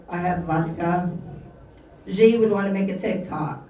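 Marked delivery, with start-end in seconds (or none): 0.1-1.1 put-on low-key Russian accent; mock Russian accent; Putin. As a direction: do a comic Russian leader. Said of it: "Putin would be like".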